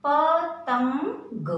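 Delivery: पतंग drawn out, ंग held; teacher modelling where the nasal falls; slow nasal demo. Shown as a demonstration. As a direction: hold the ंग in पतंग. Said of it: "त पे सुनाई दे रही है".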